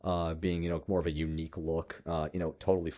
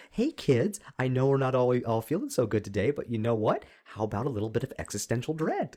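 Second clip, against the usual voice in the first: mock cheerful speech; 4 semitones higher than usual. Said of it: "how do you even do".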